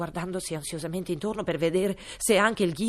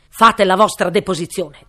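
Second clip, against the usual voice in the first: commanding king; 16 dB louder than usual. A narrator's reading. King orders the cook.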